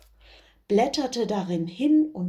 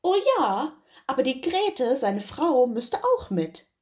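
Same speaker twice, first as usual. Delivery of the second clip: Bauer; 5 semitones higher than usual. Acted. Bauer will Grete mitnehmen.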